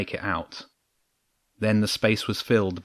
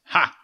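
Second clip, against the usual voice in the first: short barking laugh of victory, pitched up; a scornful bark of triumph; triumphant ha; 6 semitones higher than usual. A narrator's reading. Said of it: "the king said".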